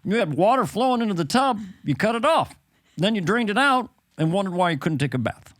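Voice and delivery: lightly voiced president giving a gentle lecture; a hint of presidential reasoning; Barack Obama. President advising Dana on momentum, lightly impersonated. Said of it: "this is Barack Obama".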